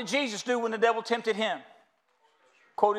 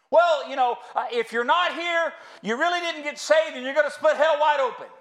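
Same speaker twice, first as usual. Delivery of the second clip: put-on fiery old preacher; 4 semitones higher than usual. Preacher mimics his old pastor warning the congregation, fiery and raised.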